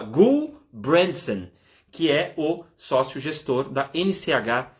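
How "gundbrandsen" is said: Gundbrandsen drawn out very slowly, split after the first syllable; very slow, stretched "Gundbrandsen"; careful name pronunciation. Shown as a demonstration. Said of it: "se é assim que fala".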